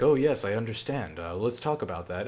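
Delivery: low, soft counselor voice; lightly acted professional sympathy; understanding therapist. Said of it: "after that appointment's like".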